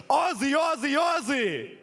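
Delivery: high, drawn-out chanted shout; Australian rallying call. Real, not acted. Host hands back to Australian panelist with a chant, calling out. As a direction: call it out for the crowd to answer. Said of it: "A very Australian calling".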